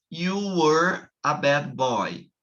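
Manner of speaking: slow model statement; slow demo. Shown as a demonstration. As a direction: read it slowly to the class.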